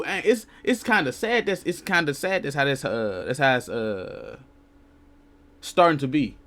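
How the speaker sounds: stumbling, repeating words; halting stutter, slowed down. Real, not acted. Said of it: "It's like I'm stuttering".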